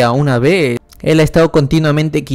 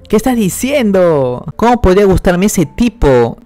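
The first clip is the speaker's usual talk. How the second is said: higher-pitched flustered protest; indignant denial; 6 semitones higher than usual. Acted. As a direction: protest as if teased about a crush. Amiga niega que le guste Ray. (protesta indignada)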